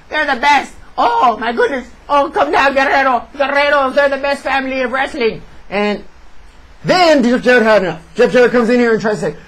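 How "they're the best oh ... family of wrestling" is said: mock gushing commentator. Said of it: "I'll translate for you".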